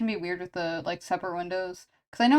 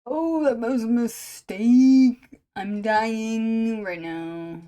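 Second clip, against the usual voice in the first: laughing, winded; 6 dB louder, much slower than usual. Real, not acted. After laughing fit, hot chips.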